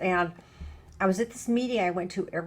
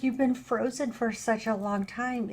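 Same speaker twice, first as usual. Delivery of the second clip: put-on gentle old lady; 3 semitones higher than usual. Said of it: "She said".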